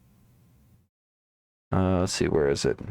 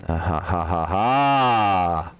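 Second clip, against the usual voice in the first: short real chuckle of relief; little triumphant laugh; pleased laugh; 3 semitones lower, slower than usual. Real, not acted. Pleased at the code finally working.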